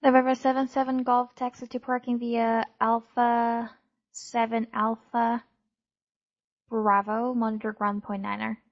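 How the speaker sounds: crackly military radio. Real, not acted. Controller radio taxi instruction.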